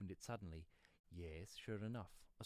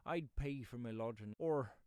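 higher, louder pleading rustic; wheedling pedlar; 5 semitones higher, 8 dB louder than usual. Acted. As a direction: plead your case like a footsore pedlar.

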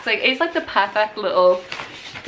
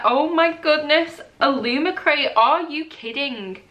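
excited; 5 semitones higher than usual. Real, not acted. Gasping at the lamp.

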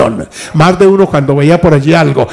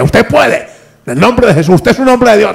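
voiced wife, pitched higher, insisting; pleading wife; 5 semitones higher than usual. Wife to husband at the table, higher insistent plea. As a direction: plead like a wife refusing his excuse.

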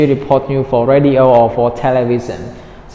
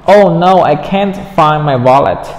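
dismayed; 4 dB louder than usual. Acted. Dismayed dialogue line read.

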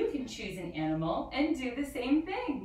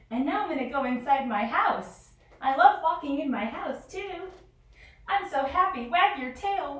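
a playful puppy, louder and higher, full of joy; happy dog; 4 semitones higher, 5 dB louder than usual. Acted. Teacher plays a dog wagging its tail for the kids, loud and excited. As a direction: bound around as an overjoyed dog, loud and high.

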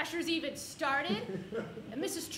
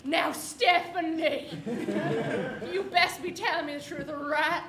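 slow, louder stern warning; livid teacher; 5 dB louder, slower than usual. Retold or imitated. Furious teacher warning student, slow and stern. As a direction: drag out each word like a livid teacher. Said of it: "she is livid".

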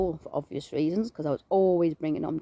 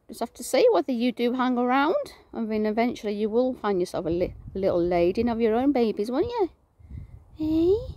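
raised, lilting voice addressed to a pet; pet talk; 5 semitones higher than usual. Real, not acted. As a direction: coax the little bird, lifting high on the tag questions. Talking fondly to the bird.

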